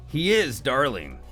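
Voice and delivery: ordinary delivery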